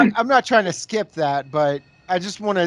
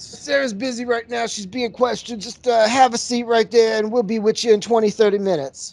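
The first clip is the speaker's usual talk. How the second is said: higher, quick brush-off; mock bored receptionist; 5 semitones higher than usual. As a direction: hurry through the excuses like a bored clerk.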